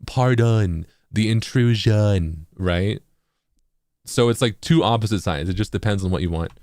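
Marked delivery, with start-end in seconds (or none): 0.1-2.5 very slow West Coast take on the phrase; West Coast accent. Shown as a demonstration. Contrasting coasts for viewers, slow West Coast accent. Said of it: "the West Coast accent will be".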